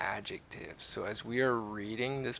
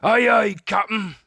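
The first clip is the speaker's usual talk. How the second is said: high, loud eager reply; pirate crew answering their captain; 11 semitones higher, 11 dB louder than usual. A narrator's reading. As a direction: call back like obedient deckhands. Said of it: "they answered".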